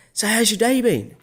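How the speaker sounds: high, chatty retold question; friendly overture. Diner trying to engage a passing waitress, friendly. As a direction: pitch it up to draw someone into conversation.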